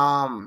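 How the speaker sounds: আর্ম with a long aa and silent r; long vowel, no r. Shown as a demonstration. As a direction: draw out the vowel in আর্ম, drop the r. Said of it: "একটু দীর্ঘ হবে, র sound হবে না". (দীর্ঘ আ, র ছাড়া আর্ম)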